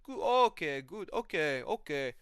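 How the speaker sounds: put-on stoner voice, high and settling; Shamil. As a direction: imitate a pal who follows nothing. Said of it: "He's like".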